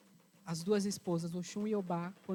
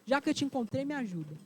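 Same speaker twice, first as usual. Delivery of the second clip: furious rant; 3 semitones higher than usual. Acted. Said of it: "nervosa, disse".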